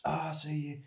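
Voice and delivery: high, giggly mock climber chat; laughing imitation. Climber at Indian Creek passing on invented move names, laughing imitation. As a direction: act out the jargon through laughter, pitched well up.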